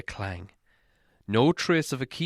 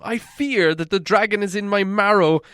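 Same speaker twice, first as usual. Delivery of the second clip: high, louder urgent plea; uneasy pleading; 8 semitones higher, 5 dB louder than usual. A narrator's reading. Bilbo urging the dwarves to shut the door, high and fearful. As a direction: press them, scared of the dragon. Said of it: "Something in his voice gave the dwarves an uncomfortable feeling".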